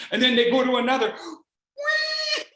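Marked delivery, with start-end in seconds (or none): 1.8-2.4 high, laughing wee and hey; giddy high calls while flying past; gleeful. Retold or imitated. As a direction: whoop it up with laughter. Joyful zipline ride.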